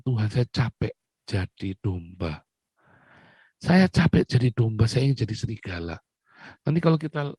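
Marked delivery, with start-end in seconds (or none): 0.0-2.4 slow, soft, worn-out plea to God; quietly begging, slowed right down; weary prayer. Retold or imitated. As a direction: sigh it out as if tired of it all. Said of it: "saya bilang".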